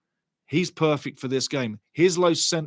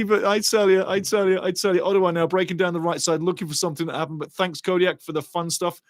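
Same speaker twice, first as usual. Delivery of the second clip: ordinary talk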